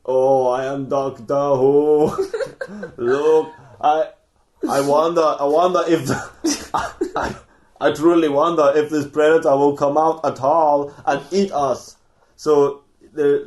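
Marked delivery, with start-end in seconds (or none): 0.0-12.0 hammed-up English accent, half laughing through it; a movie hero faking an English accent. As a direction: loose mock English accent, breaking into laughs. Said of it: "decides to put on an English accent".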